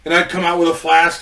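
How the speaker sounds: ordinary delivery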